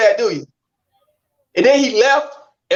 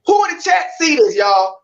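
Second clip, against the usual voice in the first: higher, raised call to the viewers; calling out to chat; 4 semitones higher than usual. Real, not acted. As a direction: call out to the whole chat for backup.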